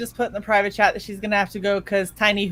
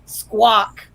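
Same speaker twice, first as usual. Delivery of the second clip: mock squawk. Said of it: "and goes".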